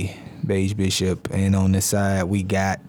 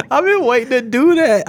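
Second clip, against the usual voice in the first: excited; 4 dB louder than usual. Real, not acted. Excited after the shout.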